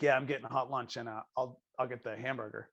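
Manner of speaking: soft, low mumbled order; hushed shy request; quiet kid voice. Retold or imitated. Kid ordering lunch, retold.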